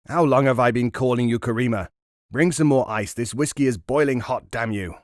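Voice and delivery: angry scolding. Acted. Drunk general scolds the maid.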